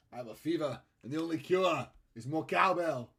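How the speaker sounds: lightly imitated odd-cadenced actor; rising, emphatic impression of the cowbell sketch; Christopher Walken. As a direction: lightly put on an odd way of speaking. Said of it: "talking about Christopher Walken a minute ago".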